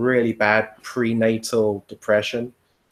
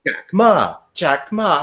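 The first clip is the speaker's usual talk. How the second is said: higher, chanted mimicry of a rote answer; a mock, higher student chant of the name; 7 semitones higher, 4 dB louder, slower than usual. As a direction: parrot it like every student did. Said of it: "mimicking the students' answer".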